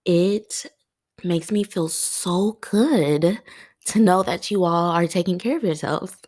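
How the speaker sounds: real tearful voice, lifted and halting; crying. Real, not acted. Host telling listeners why their self-care moves her, crying. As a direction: push heartfelt words out through tears. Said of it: "I hate crying on this podcast".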